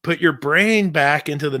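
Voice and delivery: usual speaking voice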